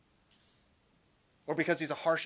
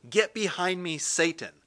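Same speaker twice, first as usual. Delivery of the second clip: stern rebuke; 5 dB louder than usual. Acted. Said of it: "he rebuked Peter".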